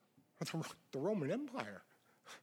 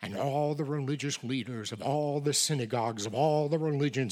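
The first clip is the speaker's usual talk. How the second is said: louder and louder, a rising proclamation; building preaching shout; 8 dB louder than usual. Real, not acted. Preacher lists all religious leaders, rising to a shout. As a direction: build to full-voiced preaching.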